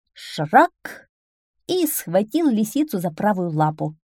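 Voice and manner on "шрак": a sudden mock "shrak" of a trap; trap snap. A narrator's reading. Trap springs on the fox, sudden snapping sound. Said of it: "спрятанный капкан сказал".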